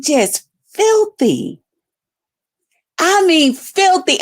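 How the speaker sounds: slow, drawn-out filthy; disgusted. Real, not acted. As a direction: drag out filthy with scorn. Mocking the rival's bed.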